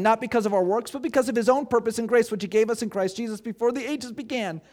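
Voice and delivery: rushed, no pauses, one breath; all in one breath. Shown as a demonstration. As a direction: read it fast without stopping. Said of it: "we're going to try to read this sentence in one breath".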